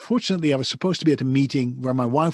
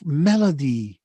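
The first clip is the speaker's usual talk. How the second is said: ordinary delivery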